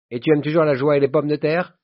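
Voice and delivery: high, loud, hearty question; jovial teasing. Acted. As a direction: prod an old pal about his pleasures. Jovial friend teasing the narrator. (gaillard et jovial, voix haute)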